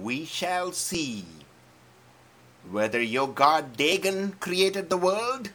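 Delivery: bold challenge. Acted. David challenging the giant.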